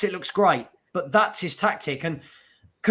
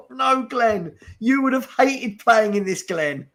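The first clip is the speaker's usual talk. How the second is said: mock pleading; 6 semitones higher, slower than usual. Fan pleading with Glenn Hoddle on TV, hammed-up and high. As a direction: beg Glenn not to say it, hammed up. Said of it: "And I just thought".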